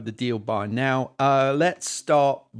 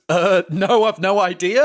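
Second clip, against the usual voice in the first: put-on Scottish accent; 6 semitones higher, 6 dB louder than usual. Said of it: "See, that was terrible".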